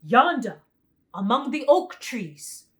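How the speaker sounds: loud tiger voice; the tiger pointing; tiger's voice. A narrator's reading. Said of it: "said the tiger".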